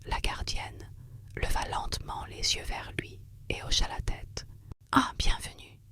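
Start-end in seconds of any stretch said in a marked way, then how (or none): 4.9-5.8 warm lullaby voice. Acted. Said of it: "sa voix chaude, douce comme une berceuse".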